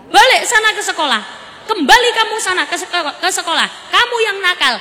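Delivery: loud, stern telling-off; father shouting at his son; scolding father. Acted. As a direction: send the kid back to school angrily.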